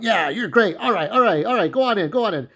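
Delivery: high, upbeat, eager-to-please; a lighter chirpy voice; cheery guy imitation. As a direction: nod along, all smiles. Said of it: "he's that cheery, cheery guy".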